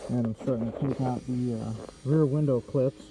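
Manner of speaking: muffled behind a face mask; talking through a respirator mask. Real, not acted. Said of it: "sorry for the muffled voice, but I'm wearing a mask".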